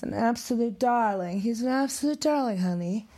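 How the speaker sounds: mock-sweet gushing quote; quoting her. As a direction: sweetly gush it like she did. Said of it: "in her words".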